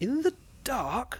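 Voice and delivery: very high, loud, trembling cry of fear. The narrator answers a man talking wildly in terror, exclaiming, shaking with fear. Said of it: "I exclaimed, shaking with fear".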